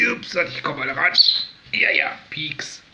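hushed soothing to a bird. Real, not acted. Whispering to the bird.

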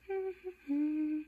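high little giggle; chuckle. Real, not acted. Amused by playing kittens, high chuckle.

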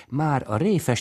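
ordinary delivery

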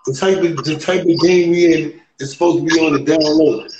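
muffled behind a mask; words muffled by a mask; through a face mask. Real, not acted. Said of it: "I'm wearing a mask right now".

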